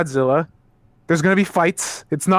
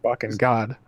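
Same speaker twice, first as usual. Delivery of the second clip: exasperated groan; 10 semitones lower, 6 dB quieter than usual. Real, not acted. Exasperated reaction to lore claim.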